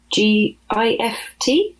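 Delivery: each letter slow and deliberate; spelled out slowly. Acted. Malaki spelling out a word for Opie, slowly. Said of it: "Malaki said".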